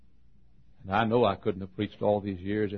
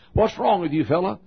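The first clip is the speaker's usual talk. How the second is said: puzzled hippie; 7 semitones higher, 3 dB louder than usual. Retold or imitated. Hippie stranger voiced.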